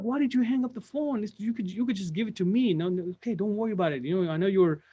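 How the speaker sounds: high, far, kind coworker; receptionist voice. Retold or imitated. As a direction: voice the patient coworker. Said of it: "She's like".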